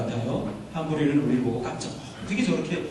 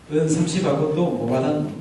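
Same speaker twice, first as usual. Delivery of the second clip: mock Gyeongsang-style dialect line; Bible dialect joke. Shown as a demonstration. Pastor turns a betrayal line into dialect, joking regional accent. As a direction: lightly put on a Korean regional dialect. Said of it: "성경적 사투리로".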